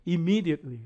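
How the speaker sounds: Immediately with the ME syllable punched; stress on second syllable. Shown as a demonstration. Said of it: "강사 뒤에 있어요".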